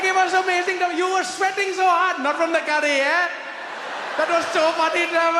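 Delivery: put-on high, loud Indian accent, quick and cheeky. Waiter boasting to Trevor about the prank, high Indian accent. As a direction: explain the prank like a proud Indian uncle.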